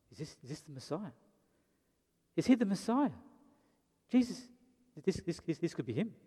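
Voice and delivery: soft, wondering murmur, mostly voiced; hushed crowd whisper. Preacher voicing the crowd's rumour, hushed and wondering. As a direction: lean in and half-whisper the rumour. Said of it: "People are starting to whisper".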